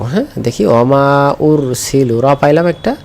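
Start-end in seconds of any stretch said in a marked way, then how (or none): 0.7-2.2 slow recitation. Shown as a demonstration. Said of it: "রটাকে খুঁজে বের করব".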